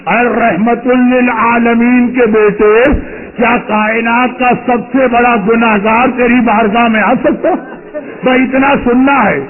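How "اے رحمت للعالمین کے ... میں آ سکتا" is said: slow humble plea. Acted. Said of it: "آواز دیتا ہے".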